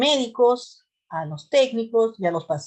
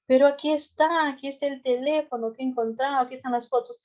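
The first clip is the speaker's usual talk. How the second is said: pleading victim; 5 semitones higher, faster than usual. Retold or imitated.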